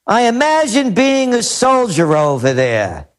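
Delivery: measured read-aloud of a quote; announced quotation, unhurried. Retold or imitated. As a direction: read it out deliberately, as someone else's words. Reads out a commentator's quote.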